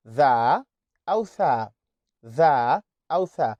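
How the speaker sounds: tongue between the teeth; th sounds. Shown as a demonstration. Teacher demonstrating English th sounds. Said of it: "You have to raise your tongue".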